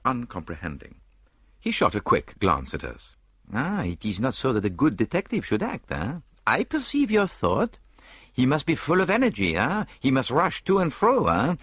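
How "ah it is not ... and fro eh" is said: high, lilting Belgian-French detective; prim little Belgian sleuth musing aloud; Poirot voice. Acted. Poirot doubting to Hastings, in a high Belgian lilt.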